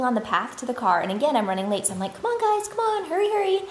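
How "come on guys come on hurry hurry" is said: put-on hurrying kids. Mom hurrying kids to car.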